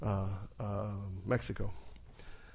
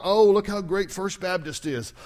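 1 mock boastful; 6 semitones higher, 6 dB louder than usual. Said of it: "it's not about".

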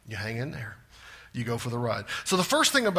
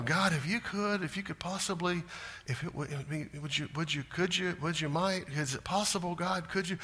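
softer, fumbling and unsure; timid hesitant prayer; 8 dB quieter than usual. Retold or imitated. New believer timidly stammering a request to God, softer. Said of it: "We'll come to God and go".

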